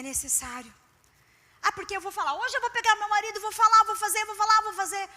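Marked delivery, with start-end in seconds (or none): 1.6-5.1 eager, hurried mock rant; mock impulsive wife. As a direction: play the wife who can't hold her tongue. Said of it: "Não. Não é assim". (esposa impulsiva imitada, com pressa)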